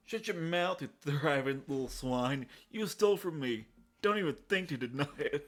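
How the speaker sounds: lightly voiced bully accusing; angry thug. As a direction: snarl at a thief. Voicing thug NPC.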